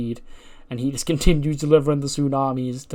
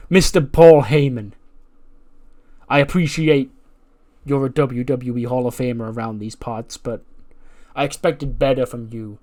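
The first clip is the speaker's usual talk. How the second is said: Ethan Page promo; 3 dB louder than usual. Retold or imitated. Wrestler confronting Paul Heyman, indignant demand. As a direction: demand an apology with wounded pride. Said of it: "he goes".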